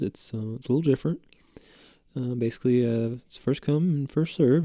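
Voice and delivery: lightly voiced, folksy clinic promoter; put-on flyer man. Acupuncture man explaining his free clinic to the host, lightly put-on voice. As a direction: casually pitch the clinic in a fun made-up voice. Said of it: "it's just fun to do that voice".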